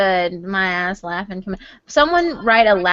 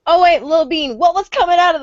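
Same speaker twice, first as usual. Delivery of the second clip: laughing quote; 7 semitones higher, 5 dB louder, faster than usual. Retold or imitated. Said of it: "He's like".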